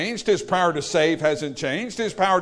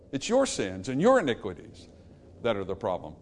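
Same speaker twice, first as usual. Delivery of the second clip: hushed verdict; 8 semitones lower, 6 dB quieter than usual. Acted. Preacher as God, quietly repeating the verdict to the congregation. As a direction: lower and softer, almost confiding. Same verdict dropped low.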